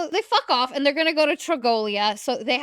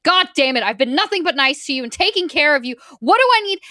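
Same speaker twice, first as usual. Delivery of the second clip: mock exasperation, rising to a louder, higher finish; retold snapping; 3 semitones higher, 4 dB louder, faster than usual. Raphael to the woman he's been nice to, snapping. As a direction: act out a man losing patience. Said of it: "he, like, snaps at her".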